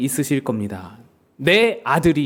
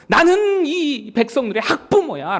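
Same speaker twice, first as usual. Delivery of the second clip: higher, slow and drawn-out assertion; confrontational; 7 semitones higher than usual. Acted. God confronts Moses as the people's parent, acted indignation. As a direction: lay down your claim as an indignant parent. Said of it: "모세에게 따지시는 겁니다".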